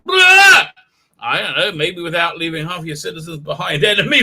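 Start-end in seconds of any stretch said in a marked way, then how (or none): 0.0-0.7 high, loud mocking whine of the irritated president; mock Biden. Streamer mocking the president's defensive response, loud and high. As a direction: shout it up high as a smug, irritated old man. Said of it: "He's like".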